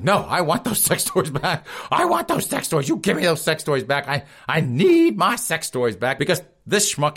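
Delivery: hammed-up high, insistent woman demanding her things back. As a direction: squeal it like a stubborn woman who wants her toys. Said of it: "she's like".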